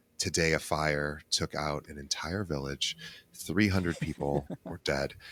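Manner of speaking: smooth announcer voice. A podcast host jokes about news radio delivery, in a slow, calm NPR radio voice. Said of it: "they use a very slow and calm mentality".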